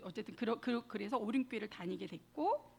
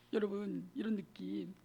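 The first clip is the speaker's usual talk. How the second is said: whispered aside; 3 semitones lower than usual. Real, not acted. Confiding aside to congregation.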